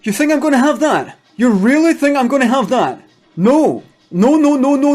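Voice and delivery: high, loud, ranting yell; furious shout. Retold or imitated. Businessman screaming at the awards crowd, furious shouting. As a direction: blow up at the whole hall. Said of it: "and I shouted".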